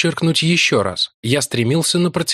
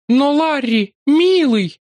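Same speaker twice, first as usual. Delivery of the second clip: much higher, tender surprise; surprised, motherly; 4 dB louder, much slower than usual. A narrator's reading. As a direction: coax him like a mother. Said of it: "В удивлённом голосе ... материнские нотки".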